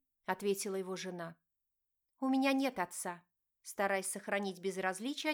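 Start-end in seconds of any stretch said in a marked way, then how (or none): 2.2-3.2 clipped, cold. A narrator's reading. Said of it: "отчеканила девушка".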